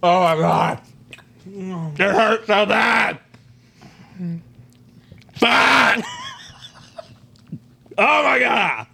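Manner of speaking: drawn-out pained groans; moaning in pain. Real, not acted. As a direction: groan through burning pain. Mouth burning from Carolina Reaper.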